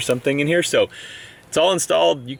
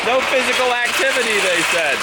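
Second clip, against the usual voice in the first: sarcastic; 12 semitones higher than usual. Real, not acted. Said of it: "I'm a very good patient".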